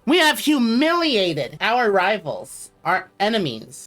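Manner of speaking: slow, stately emperor's announcement; grand proclamation. Pretend. Streamer proclaiming triumph over rivals to chat. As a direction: boast of the victory like a proud ruler.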